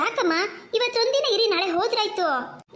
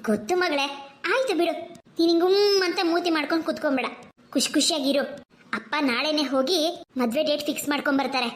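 mother. Acted. Mother calming her two daughters, gently. Mother figure voiced lower.

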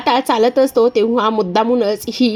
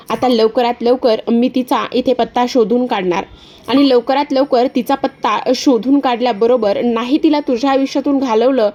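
Disha's sly voice. Acted. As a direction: sweet-talk him with a sneer. Disha threatens Paaru.

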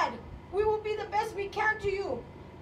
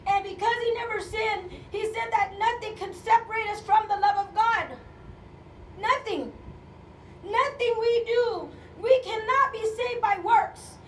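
forceful, raised-voice proclamation; impassioned preaching. Real, not acted. Preacher telling congregation nothing separates them from God, forceful. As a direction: declare it to the whole congregation with conviction.

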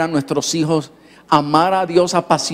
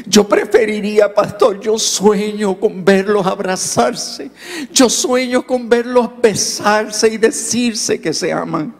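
imitating a boy's pleading, slow and higher; tearful longing; 4 semitones higher, slower than usual. Boy tells pastor his dream for his parents, tearful longing. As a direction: stretch out the wish like an upset child. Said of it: "volvió a llorar y me dijo".

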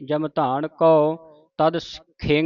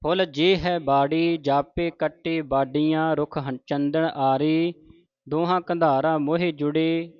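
scripture recitation. Shown as a demonstration.

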